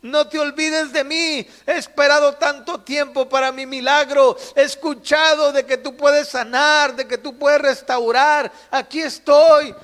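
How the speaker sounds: loud, high-pitched cries for attention; imitated excited shouts. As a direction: call out insistently, acting the desperate blind man. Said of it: "brincaba y daba gritos". (imitando gritos insistentes para llamar la atención)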